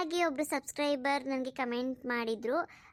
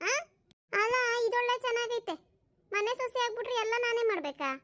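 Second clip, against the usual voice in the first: put-on higher-pitched, aggrieved young wife; complaining daughter-in-law; 5 semitones higher than usual. New daughter-in-law refuses to cook tonight, complaining. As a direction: grumble like a put-upon new bride.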